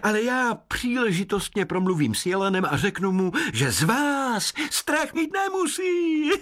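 high, odd woodland voice; forest spirit. Acted. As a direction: speak like a kindly sprite. Hejkal speaks.

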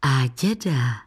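ordinary delivery

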